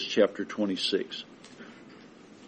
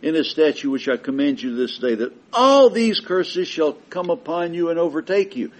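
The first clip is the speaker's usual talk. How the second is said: loud, solemn voice of God, building to a higher, louder pitch on terror; scripture read as God; 7 semitones higher, 5 dB louder than usual. Acted. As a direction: thunder God's warning from Leviticus. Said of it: "God says".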